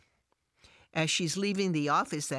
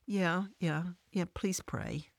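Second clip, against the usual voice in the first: hesitant; 3 semitones higher than usual. Acted. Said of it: "she hesitatingly says".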